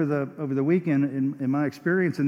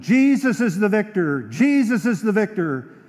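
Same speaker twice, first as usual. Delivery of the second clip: bellowed; 4 dB louder than usual. Retold or imitated. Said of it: "the voice bellowed out of this woman".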